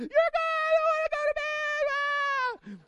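put-on high, loud toddler shriek; toddler tantrum scream. Little girl refusing bed, high loud shriek. Child screaming back at parent.

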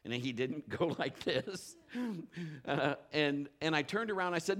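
ordinary delivery

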